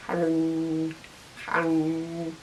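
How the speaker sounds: low, soft mindless cannibal drone; staring cannibal. Retold or imitated. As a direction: drone it like a cannibal glued to the screen. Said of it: "staring at the screen".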